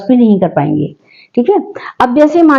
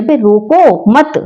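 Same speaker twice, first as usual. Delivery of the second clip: slow, drawn-out "रोको मत", stopping after मत; pause after मत; slower than usual. Shown as a demonstration. Teacher explaining the ban on stopping, pause after मत. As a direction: keep मत attached to रोको, then stop. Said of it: "रोकने का निषेध किया जाए".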